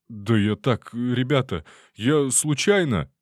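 high, slow wailing excuse; lamenting. Acted. Detainee pleads with soldiers, high wailing lament. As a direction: wail the excuse like a pitiful drunk. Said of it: "запричитал он".

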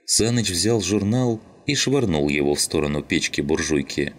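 plain reading voice

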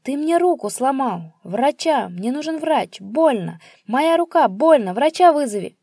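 loud high yells of pain; father howling over his broken arm; screaming in pain. Acted. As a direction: scream for a doctor. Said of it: "Отец завопил, как резаный".

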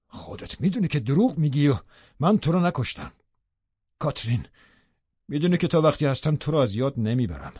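savage. A narrator's reading. Lover rages at the dying woman, savage and high. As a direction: hurl it at her savagely. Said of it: "وحشیانه گفت".

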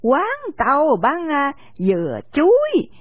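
put-on an old shopkeeper grumbling then giving in; lightly voiced cranky old lady; grumbling old woman. Old woman scolds then relents.

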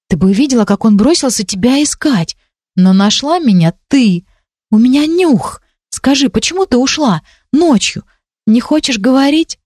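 put-on a curious young girl pressing gently; light girl voice. Ранди расспрашивает Агни. (Ранди выше обычного, с любопытством)

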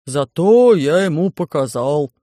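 сконфуженный рык, громче и медленно; оправдывается, ворча; смущённо рычит. Acted. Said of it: "смущённо прорычал Громозека". (Громозека смущённо оправдывается перед профессором)

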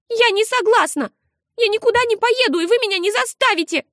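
high, loud tearful defiance; angry outburst. A narrator's reading. Girl yelling at her mother that she won't go, high and loud. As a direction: shout your refusal at mother. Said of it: "бросила на маму злобный взгляд".

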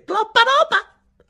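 very high, slow, stretched exclaim; drawn-out laughing owner. Retold or imitated. Chinese owner laughing at the smaller order, slow high squeal. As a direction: stretch it out in mock disbelief.

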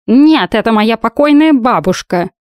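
high, slow sarcastic cat snort; snooty cat. A narrator's reading. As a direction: sneer it like an offended cat. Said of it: "недовольно фыркнул кот".

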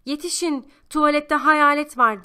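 loud, high cry for help; alarmed shout. A narrator's reading. Girl raising the alarm about a ghost, shouting. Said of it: "diye bağırdı".

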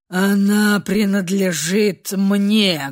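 low, slow threatening growl; menacing growl. A narrator's reading. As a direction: growl a warning over his claim. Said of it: "грозно зарычал Ренулф". (грозно зарычал)

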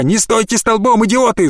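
гневный окрик, высоко и громко; рявкнуть на охранников; заорал. Acted. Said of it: "заорал мужчина на охранников". (яростный крик, высоко и громко)

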